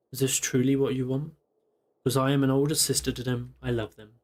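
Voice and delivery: reading the note aloud, evenly; calm storyteller reading a letter; story narration. Acted. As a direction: read it like a storybook passage. Reads game story text aloud.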